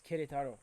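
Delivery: Querétaro with a plain "ke", no w; corrected pronunciation. Shown as a demonstration. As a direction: say Querétaro as "keh-DEH-ta-ro". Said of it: "Oh, you don't say que".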